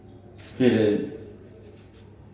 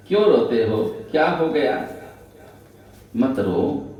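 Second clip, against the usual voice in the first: mother coaxing. Retold or imitated. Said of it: "मनाती हैं".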